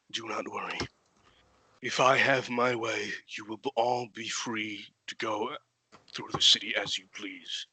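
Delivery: reassuring knight. Acted. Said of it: "gauntleted hand on her shoulder and say".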